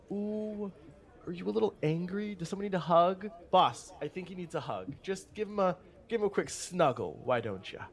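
mock him like a sulky child; mocking barmaid. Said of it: "the woman from the behind the bar goes".

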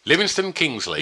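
Livingston, Kingsley rattled off quickly. Shown as a demonstration. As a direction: fire the two names off back to back. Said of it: "Saying it quickly".

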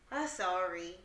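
low, soft, grudging sorry; half-hearted apology. Retold or imitated. Daughter told to apologize to mom, grudging imitation. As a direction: say it without meaning it, as a child. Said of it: "No, say it like you mean it".

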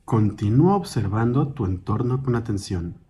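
calm, measured meditation guide, slightly softened; guided meditation. Acted. Guide leading a listener through a mindful walk, calm guided meditation. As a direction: guide them gently through each step, with long pauses.

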